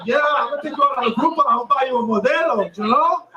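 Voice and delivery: rattled off quickly as a smug cheapskate; fast mock boyfriend. Comic mocks a man bragging to his date, fast. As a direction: blurt it out fast and pleased with yourself. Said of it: "We're saying you're really fucking sweeping her".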